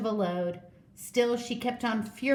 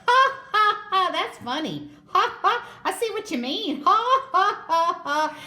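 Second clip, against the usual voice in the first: high, loud laughing lines; lion laughing at the tangled giraffe; roaring laughter; 11 semitones higher, 6 dB louder than usual. Acted. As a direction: laugh merrily while talking. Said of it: "burst into great roaring laughter".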